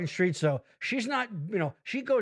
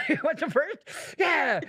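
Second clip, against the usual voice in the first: jazzed doctor; 8 semitones higher than usual. Retold or imitated. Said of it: "He's like".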